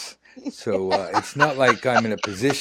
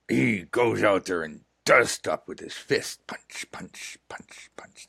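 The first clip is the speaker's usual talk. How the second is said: whisper. Acted. Rugged man bravado, whispered.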